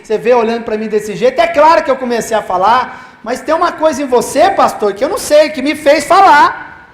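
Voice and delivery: imitating her amazement, climbing in pitch; retold astonished confession. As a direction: act out her baffled insistence, rising as it goes. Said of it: "Falou bem assim".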